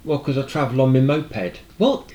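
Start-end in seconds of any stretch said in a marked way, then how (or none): 1.8-2.1 high, loud retold "What?"; incredulous. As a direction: burst out in mock disbelief. Reacting incredulously to the builder's answer.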